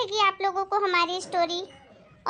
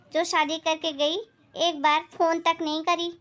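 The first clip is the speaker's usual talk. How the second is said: lightly voiced disapproving aunt; scornful neighbour; 2 semitones lower than usual. Neighbour throws the mother's words back, scornful. Neighbour echoes complaint mockingly.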